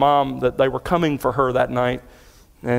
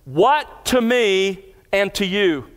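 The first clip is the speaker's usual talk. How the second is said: slow literal reading; 5 semitones higher, slower than usual. Shown as a demonstration. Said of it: "the Greek text says this".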